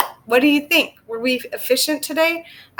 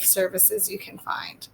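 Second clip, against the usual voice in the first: 1 whisper; 11 dB quieter than usual. Real, not acted. Trailing aside.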